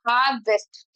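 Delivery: हार्वेस्ट with a small break between हार and वेस्ट; syllable break. Shown as a demonstration. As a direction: lightly split हार्वेस्ट into two beats. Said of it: "इस तरीके से हम break करके बोलते हैं".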